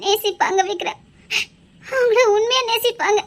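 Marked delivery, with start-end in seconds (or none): 1.8-3.2 comforting while crying; teary reassurance. Acted. Rohini tearfully assuring Vikram someone loves him. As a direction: hold back tears as you console. Consoling through tears.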